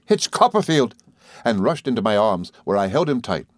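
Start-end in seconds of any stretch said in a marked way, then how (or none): 0.1-0.9 high, thrilled recognition; joyful high-pitched exclamation; astonished cry. A narrator's reading. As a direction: cry out on spotting an old friend. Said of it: "cried Traddles, looking up".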